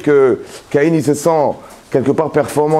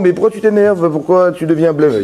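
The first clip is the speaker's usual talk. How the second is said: higher, baffled questioning of the angry man; puzzled question; 3 semitones higher than usual. Retold or imitated. Hashem asking Cain why he is angry, higher and baffled. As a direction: ask why he is upset as if it makes no sense. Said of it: "il me demande".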